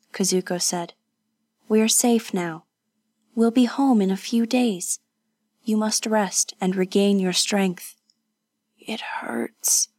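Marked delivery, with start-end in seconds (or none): 1.7-8.0 put-on gentle young woman. 8.8-9.9 faint, low whisper of pain. Acted.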